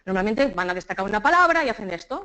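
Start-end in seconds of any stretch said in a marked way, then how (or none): 1.7-2.2 volume emphasis. Shown as a demonstration. Teacher showing how people stress a word, volume only. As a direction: hit "esto" with sheer volume. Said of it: "y suben el volumen".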